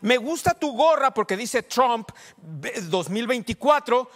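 loud, high, slow proclamation. Acted. Pastor showing the woman how it sounds aloud, loudly. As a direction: announce it for everyone to hear. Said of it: "si hubieras dicho en voz alta".

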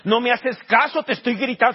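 reproche actuado, voz algo alzada; reproche imaginado. Acted. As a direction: imita a una mujer que reclama atención. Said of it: "le pudo haber dicho, ... te estoy gritando". (reclamo dramatizado)

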